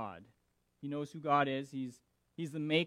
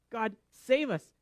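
slow, loud desperate plea; crying out; 5 semitones higher, 7 dB louder, slower than usual. Retold or imitated. Sailors in the storm begging their gods, loud and slow. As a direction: cry for rescue, drawn out. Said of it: "They're crying out".

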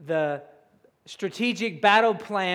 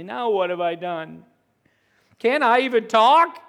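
lightly voiced aggrieved child, getting louder; whining kid; 3 dB louder than usual. The speaker answering his brother like a kid in a minivan, mock whine. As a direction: protest like a kid on a family car trip. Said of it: "sounds like a kid in the back of a minivan".

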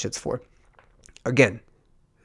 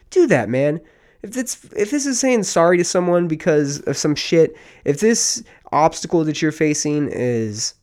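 louder, higher, riled-up pep talk; getting fired up and pushing the listener; worked-up rant; 4 semitones higher, 3 dB louder than usual. Real, not acted. Host ranting to listeners, worked up and loud. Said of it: "I get aggravated and I get all worked up".

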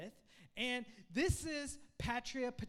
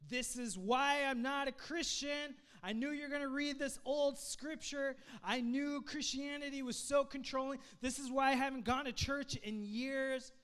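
raised, higher, indignant complaint; mock outrage; 4 semitones higher, 5 dB louder than usual. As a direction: rant like a fed-up skeptic. Voicing an angry skeptic.

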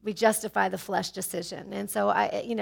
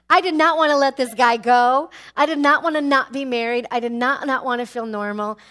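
loud, higher, pleading insistence; passionate insistence; 3 semitones higher, 7 dB louder than usual. Real, not acted. Telling the congregation how badly she wanted him, loud and high. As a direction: pour out the wanting, loud and high.

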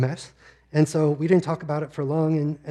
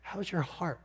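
much softer, hushed and lingering; gentle ministry question; 2 semitones higher, 11 dB quieter than usual. Retold or imitated. Speaker repeating the doctor's question to listeners, hushed. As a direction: savour the question softly. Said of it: "a ministry-oriented question".

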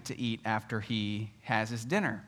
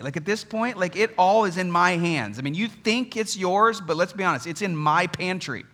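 indignant dad; 2 semitones higher, 4 dB louder than usual. Retold or imitated. Indignant dad lecturing his son.

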